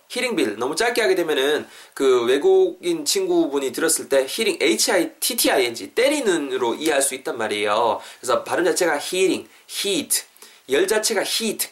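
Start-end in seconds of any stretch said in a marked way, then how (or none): 0.1-0.6 히팅 빌 with a crisp t sound; hard t. Shown as a demonstration. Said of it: "히팅 빌이라고 하시면 안 돼요". 9.0-11.7 HEAT with a long ee; long vowel. Shown as a demonstration. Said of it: "긴 발음이거든요".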